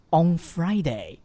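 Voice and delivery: On short and punchy, then Friday; short strong on. Shown as a demonstration. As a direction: clip On short and firm. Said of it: "On一定要发得短促有力". (On读得短促有力)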